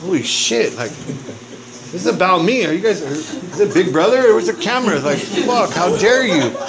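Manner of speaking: jokey "where's the camera" disbelief; mock outrage. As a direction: act stunned and betrayed, half laughing. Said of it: "and I'm like".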